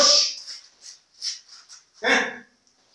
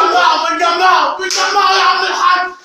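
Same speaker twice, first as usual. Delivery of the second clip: frantic shout; 2 semitones higher than usual. Acted. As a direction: shout over the chaos. Doctor shouting during delivery. (صياح متوتر عالي)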